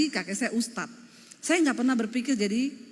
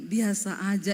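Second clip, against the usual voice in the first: imitated unimpressed husband; 4 semitones lower than usual. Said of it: "Dia bilang".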